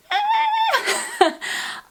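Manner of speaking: very high-pitched drawn-out squeal. Real, not acted. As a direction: let out a thin, high squeal while stuck deciding. Stumped picking the last bag.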